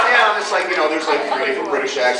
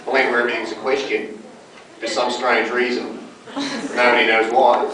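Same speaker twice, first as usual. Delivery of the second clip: Australian accent; 4 semitones lower than usual. Shown as a demonstration. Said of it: "he explained the tonality".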